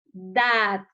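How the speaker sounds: Dat drawn out as the strong syllable; stressed syllable. Shown as a demonstration. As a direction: lean long on Dat. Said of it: "sílaba con mayor fuerza de voz".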